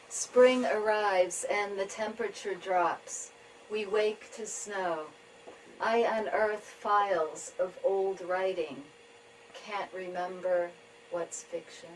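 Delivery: measured tanka reading with pauses between lines; poetry reading. Acted. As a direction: read each image slowly, letting it settle. Reads own tanka.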